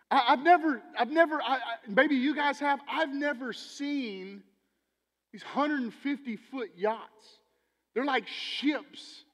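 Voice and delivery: slow, awed, drawn out; wide-eyed disbelief at yachts; amazed. Real, not acted. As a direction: marvel at the size, stretching the words. Awed about huge yachts.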